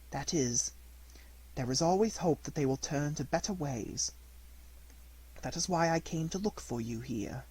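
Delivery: soft, gentle motherly voice; fairy forgiving her puppet, quietly tender; tender forgiveness. Acted. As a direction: comfort him softly like a mother.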